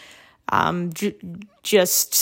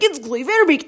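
slightly higher mock little-brother voice; lightly mimicked brother; 5 semitones higher than usual. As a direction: lightly mimic your brother's announcement, pitched up. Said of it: "he was like".

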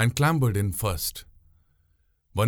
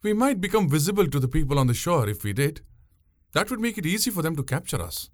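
put-on higher young woman's voice, patient; explaining; 7 semitones higher than usual. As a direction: tell him plainly why not. Pungureli explains the danger.

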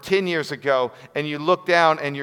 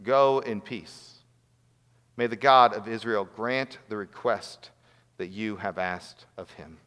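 sincere blessing; 4 semitones lower than usual. Real, not acted. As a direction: bless the listeners gently and slowly. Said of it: "I'm gonna pray these words over you".

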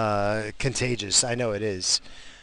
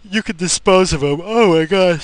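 loud outburst; 8 semitones higher, 10 dB louder than usual. Real, not acted.

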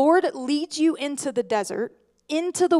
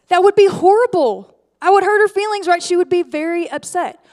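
much louder, higher declaration; emphatic; 5 semitones higher, 9 dB louder than usual. Real, not acted. The preacher telling the congregation, loud and emphatic. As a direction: land it hard on the room.

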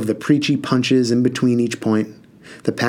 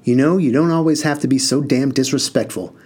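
barking; 3 semitones higher than usual. Acted. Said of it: "started in on Spoonie with a bark".

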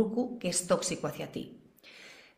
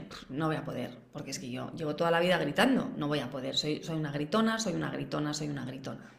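defeated self-talk; 3 semitones lower than usual. Retold or imitated. Mother trying to stop yelling, hopeless and fading. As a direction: mutter it to yourself, giving up. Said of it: "tengo este mensaje".

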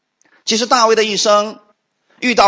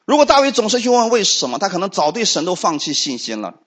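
usual speaking voice

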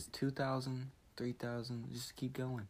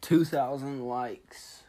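drawn-out, louder excited call; excited announcement; 4 semitones higher, 5 dB louder, slower than usual. Real, not acted. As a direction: announce it slowly, thrilled.

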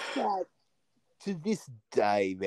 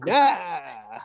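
louder, dismissive nah; imitating bored clerk; 6 semitones higher, 8 dB louder than usual. Post office clerk answering Akeem, dismissive. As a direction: brush it off flatly.

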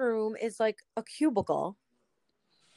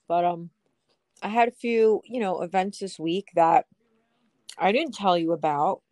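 chewing while talking; 3 semitones lower than usual. Real, not acted. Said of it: "Sorry if I'm chewing in your ear".

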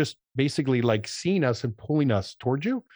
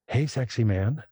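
playful flirty teasing. Shown as a demonstration. Wife flirting her husband into changing the bulb, playful tease. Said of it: "like, playful, flirty, teasing".

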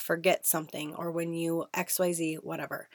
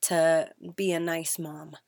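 gentle plea. Shown as a demonstration. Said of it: "taken it so far as to".

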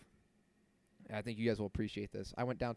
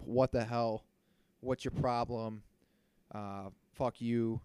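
mock angry retort; slower than usual. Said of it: "I didn't say that".

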